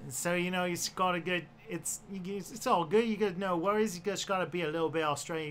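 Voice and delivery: lightly put-on Aussie accent; loose, casual attempt at Australian; relaxed Australian twang. Shown as a demonstration. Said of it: "someone wanted me to do Australian".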